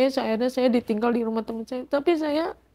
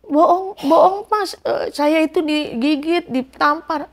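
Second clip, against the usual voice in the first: retold indignant denial, higher and louder; pleading your case, pitched up; urgent protest; 4 semitones higher, 4 dB louder than usual. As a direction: protest insistently to be believed. Retold protest to disbelieving neighbours.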